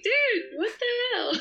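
high, laughing and slow "dude, what the hell"; mock exasperation. Actress mocking people who mistake her accent, high and laughing. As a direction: play it as a laughing, half-serious protest. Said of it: "I'm like".

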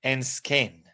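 very slow, drawn-out model line; slow demo read. Shown as a demonstration. Teacher reading the example to students, very slow. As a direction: stretch each word for the class.

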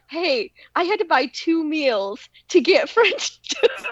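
giggling through his words; laughing while quoting him. Retold or imitated. Wife quoting her husband about the meals, laughing. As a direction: quote him as she laughs. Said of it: "He said to me".

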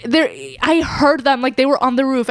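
put-on high child voice insisting; insistent little kid. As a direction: argue it like a stubborn six-year-old. Child insisting she heard reindeer.

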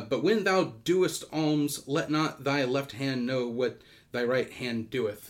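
slow solemn King James reading; scripture reading. Shown as a demonstration. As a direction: read it like old scripture. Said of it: "King James".

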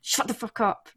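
hushed evil threat. Retold or imitated. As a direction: threaten her under your breath, muffling her. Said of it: "Like, really evil".

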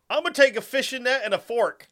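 high-pitched dimwit picking a weapon; dummy gladiator. Acted. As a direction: blurt it proudly like a fool. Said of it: "Fucking dummy".

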